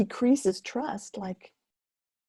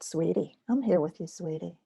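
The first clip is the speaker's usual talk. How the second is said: tender comfort. Shown as a demonstration. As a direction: soothe yourself like a scared child. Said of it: "Sometimes I call it".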